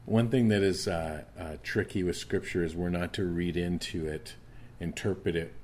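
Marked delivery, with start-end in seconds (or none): none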